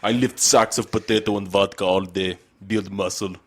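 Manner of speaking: mock Russian strongman accent. Host joking as a strongman, mock Russian accent. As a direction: brag in a put-on Russian accent. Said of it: "Do you have a Russian voice".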